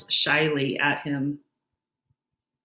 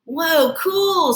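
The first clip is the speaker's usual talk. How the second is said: excited whoa; 8 semitones higher, 3 dB louder than usual. Acted. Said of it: "says Emilio".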